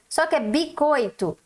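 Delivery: "bicoito" said without the S; wrong "bicoito". Shown as a demonstration. Teacher showing the missing S mistake. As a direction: drop the S in "bicoito". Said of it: "bis, ó, o s".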